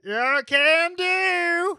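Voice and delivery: high, slow ship voice; slow, lifted robot-ish helper voice; Little Sour voice. Acted.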